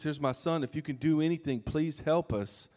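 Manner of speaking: a touch of a father pleading, slowing down on the last words; desperate plea. Retold or imitated. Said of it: "The guy told Jesus".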